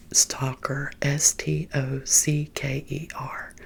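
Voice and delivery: "Stalker" said as stocker, then slowly spelled letter by letter. Shown as a demonstration. Clarifying her job title to viewers, "Stalker" said as stocker and spelled out. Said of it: "Am I saying it right?".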